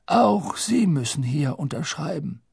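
polite, stalling headmaster; calm old wizard buying time; old headmaster's voice. Acted. Dumbledore voiced.

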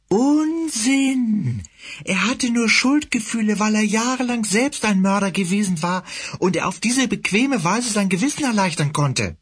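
high, sneering villainous cat. Acted. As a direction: taunt him like a fanatic cat leader.

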